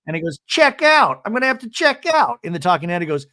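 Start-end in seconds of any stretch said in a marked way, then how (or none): 0.5-2.4 high, loud hammed-up despair; mock despair. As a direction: fake drama over leaving. Husband despairs over bathtub.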